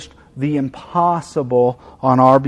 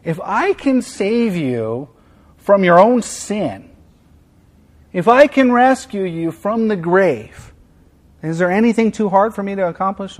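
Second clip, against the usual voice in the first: gracious and kind; 3 semitones higher than usual. Retold or imitated. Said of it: "He's so gracious and kind".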